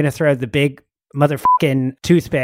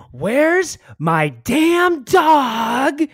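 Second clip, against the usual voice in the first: slow, higher raging yell; 11 semitones higher, 3 dB louder, much slower than usual. Acted. Raging barbarian yelling at surrounding pirates. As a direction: bellow it across the deck. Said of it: "yell out".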